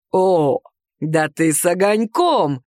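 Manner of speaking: low, slow amused taunt; amused brash man. A narrator's reading. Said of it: "заявил он". (наглец дразнит героиню, низко и с насмешкой)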